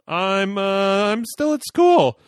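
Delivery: put-on nervous teen voice. Nervous teen answering mom.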